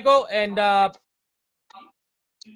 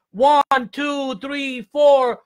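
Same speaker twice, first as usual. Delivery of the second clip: instructor count; 3 dB louder, much slower than usual. Acted. Counting exercise beats.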